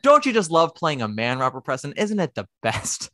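mock-sweet, teasing gush; sarcastic gushing. Mocking Robert Preston for loving a manly role, sarcastic. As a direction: tease the actor with fake delight.

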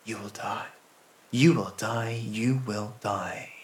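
soft, slow, hushed chant; whispering bushes. A narrator's reading. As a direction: murmur it low like an eerie threat. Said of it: "they whisper".

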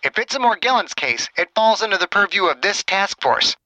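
irate doctor over the phone, pitch climbing; angered. Acted. Chang insists Margaret report to him, angered. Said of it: "The question seemed to anger Chen".

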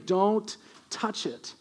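slow, hushed reminder of the rule. Acted. God repeats warning, softer.

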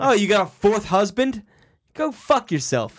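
loud mocking curse; swearing tirade. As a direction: snap back loud and rude. Mock rant at relative.

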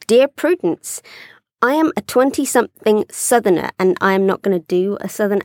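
measured read-aloud voice; letter reading. Acted. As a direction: read a listener's letter to the audience. Reads listener's letter aloud.

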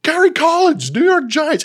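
high, loud blurted draft pick; panicked pick shout. Retold or imitated. Drafter announcing his panicked pick, high loud blurt. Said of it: "He goes".

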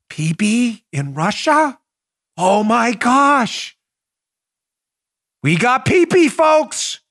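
slow, gleeful mock official; hammed-up Rosenstein. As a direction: play a dim official thrilled by gossip. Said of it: "Here's Rosenstein".

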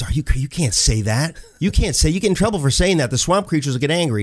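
mock-worried cave people; alarmed warning. Cave people warn Donald.

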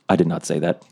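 low, deadpan denial while falling; calm indoor voice. Acted. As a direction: state it evenly, no yelling. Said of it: "like an indoor voice".

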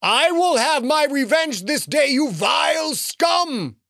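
booming vengeful shout. Acted. Sky wizard threatens Lincoln, booming shout. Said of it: "the booming voice called".

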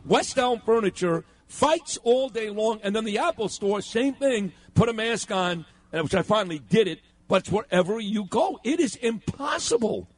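high-pitched, incredulous venting; exasperated rant. Real, not acted. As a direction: rail in disbelief at one fight after another. Ranting about mask fights all day.

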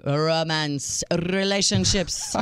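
romance and relationships with a rolled, trilled R. Shown as a demonstration. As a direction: roll the R in romance and relationships, slowly. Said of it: "I rolled my R for your French romantic".

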